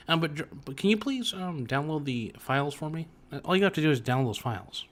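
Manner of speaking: soft, badly faked movie-star voice; Robert Downey Junior. Actor asking Jarvis for files, a weak impression. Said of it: "the R D J impression's pretty bad".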